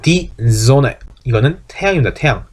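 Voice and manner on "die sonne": "Die Sonne" with a voiced z and a single n; German "Sonne", z sound and short o; correct German. Shown as a demonstration. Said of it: "존네 하는 게 아니고".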